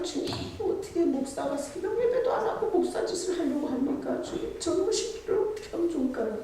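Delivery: high, pleading plea to the Lord; pleading prayer. Acted. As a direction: whine up at God like a fretting child. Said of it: "막 이러잖아요". (높고 애원하는 기도 목소리)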